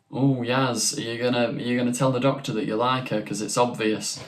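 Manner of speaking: light Northern English accent, imitating Jodie Whittaker; lightly put-on Northern English accent when teasing Yaz. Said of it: "I've gone this sort of northern".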